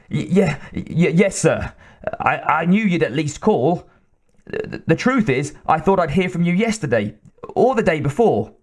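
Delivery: flustered little man caught off guard; nervous stammer. Acted. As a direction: scientist stammering excuses to his angry boss. Wyckoff stammers to his boss.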